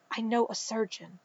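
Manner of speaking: fast, soft and urgent; a quick hushed secret to Immer; rushed whisper. A narrator's reading. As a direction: hurry it out under the breath. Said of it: "Kitster said in a rushed whisper".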